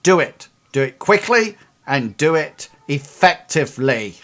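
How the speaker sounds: firm order. Acted. Boss ordering in character.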